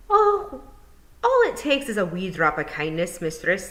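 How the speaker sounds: light Scots pixie answering kindly; lightly voiced Feegle; Scottish pixie voice.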